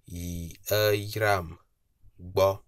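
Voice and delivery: "yi Aram bo" slowly, sliding down on "Aram"; downward slide tone. Shown as a demonstration. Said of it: "it's a downward slide intonation".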